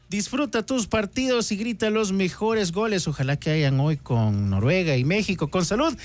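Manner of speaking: upbeat, punchy radio commercial delivery; sponsor ad read. Acted. Co-host plugging sponsors during a World Cup show, ad read. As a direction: sell it to the listeners like an announcer.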